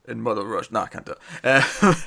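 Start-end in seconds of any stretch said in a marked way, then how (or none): 0.1-0.7 half-hearted attempt at a Russian accent; barely-there Russian accent; bad Russian accent. Shown as a demonstration. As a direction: try a bad Russian accent, then give up. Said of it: "do a bad Russian accent".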